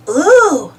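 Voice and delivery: a gasped, rising ooh of wonder; awed ooh. A narrator's reading. Pablo spotting a gleaming boot, awed ooh. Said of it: "gasped Pablo".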